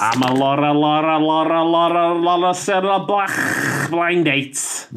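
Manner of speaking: impression of a TV hostess. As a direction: stretch the Lauras like a TV hostess from Liverpool. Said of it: "That's my TV hostess impression".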